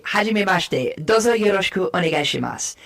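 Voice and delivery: Japanese greeting; speaking Japanese. Shown as a demonstration. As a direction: switch into a polite Japanese greeting. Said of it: "you might suddenly switch and you might say".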